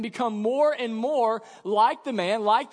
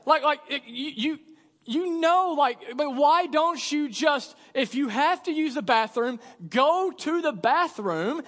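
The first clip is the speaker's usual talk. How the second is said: exasperated scolding; 5 semitones higher than usual. Pretend. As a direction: lecture him like a fed-up father. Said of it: "I literally just wanna just yell at my son".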